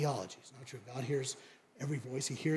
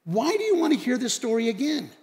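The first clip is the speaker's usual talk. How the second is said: mildly exasperated, higher as it goes; 4 semitones higher than usual. Retold or imitated. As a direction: complain that nobody is listening. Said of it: "the man kinda gets exasperated".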